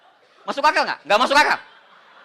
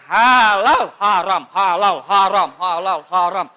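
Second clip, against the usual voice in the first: mock shouting match; 4 semitones lower, 7 dB louder, slower than usual. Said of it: "Dia bilang".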